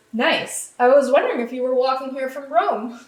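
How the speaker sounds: lightly sarcastic imitated radio remark; sassy. Charles to his engineers on the radio, mildly sassy. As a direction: give it a touch of sass. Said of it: "Sass. The sass".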